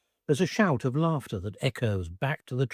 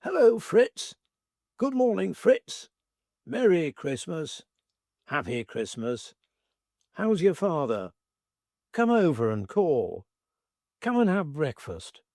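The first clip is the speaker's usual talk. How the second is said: cheery shouted greetings; 5 semitones higher than usual. Retold or imitated. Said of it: "We shout".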